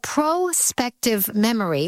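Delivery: "prospective" said with a long O, PRO-spective; long-O pronunciation. Real, not acted. Host introducing a new term, "prospective" as PRO-spective. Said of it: "generally people call it prospective memory".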